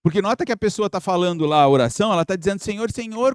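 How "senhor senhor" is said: higher-pitched mock contrite plea; imitated repentance. Person praying "Lord, Lord" without meaning to change, imitated repentance. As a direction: imitate a penitent who claims to want change. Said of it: "com um tom de arrependimento de quem quer mudar".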